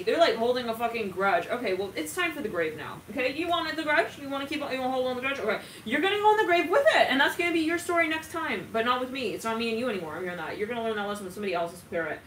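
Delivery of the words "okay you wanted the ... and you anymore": high, loud mocking threat; angry scolding. Reader scolding the grudge-holder, angry and loud. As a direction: tell them off hard, rising to a shout.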